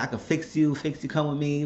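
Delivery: lightly voiced, insistent retold plea; retold begging. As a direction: plead like a mother begging her son. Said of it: "begging, begging, begging".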